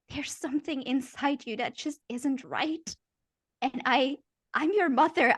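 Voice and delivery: unhinged mother. Acted. Mother caught with the knife, creepily tender. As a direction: soothe her child while holding a knife. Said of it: "she says".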